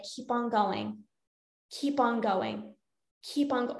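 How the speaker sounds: quietly nudge, drawing the words out; urging inner voice. Acted. Binge brain urging someone already full to continue, softly insistent. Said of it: "this other part of your brain that's like".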